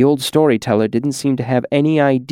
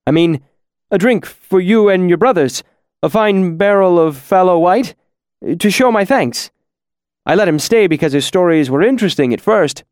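frightened pleading; 5 semitones higher, 3 dB louder than usual. Acted. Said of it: "His voice broke".

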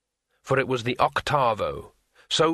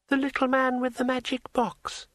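smooth dryad voice; 13 semitones higher than usual. A narrator's reading. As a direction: glide through it smoothly. Dryad speaks.

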